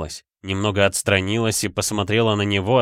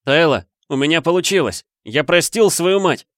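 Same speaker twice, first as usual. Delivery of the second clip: joyful; 9 semitones higher, 5 dB louder than usual. A narrator's reading. Флинн ликует от успеха.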